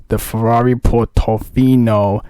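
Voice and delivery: slow, savoured Italian accent on Ferrari Portofino; hammed-up Italian accent. Shown as a demonstration. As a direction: roll the name out like an Italian. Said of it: "you gotta say these cars in that accent".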